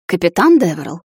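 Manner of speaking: lightly hammed-up shock; feigned gasp. A narrator's reading. Girl accusing the captain of blackmail, feigned gasp. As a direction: gasp the name in mock reproach. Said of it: "наигранно ахнула я".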